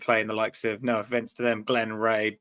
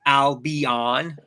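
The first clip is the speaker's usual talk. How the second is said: stadium announcer; 4 dB louder than usual. Acted. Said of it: "that's the stadium announcer".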